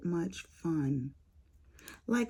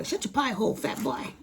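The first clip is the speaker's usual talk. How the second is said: sister's teasing; 6 semitones higher than usual. Retold or imitated. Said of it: "She calls him a fat boy".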